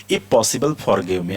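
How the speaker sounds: drawn out, word by word; slow model reading. Shown as a demonstration. Teacher reads the example slowly to students. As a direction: say it slowly for learners to repeat. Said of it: "teacher models example sentence".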